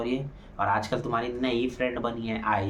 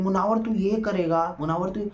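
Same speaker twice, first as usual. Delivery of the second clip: imitating Ankita; 8 semitones higher than usual. Vlogger mimics Ankita nagging Munawar, higher mock voice. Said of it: "Ankita continuous बोल रही".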